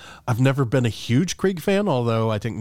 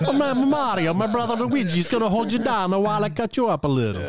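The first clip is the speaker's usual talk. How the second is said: much higher, hammed-up cartoon Italian accent; 11 semitones higher than usual. Joking about Mario turning gory, in a hammed-up Italian accent. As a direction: play a goofy Italian plumber with a thick Italian accent. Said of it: "read a band's lyrics in an Italian accent".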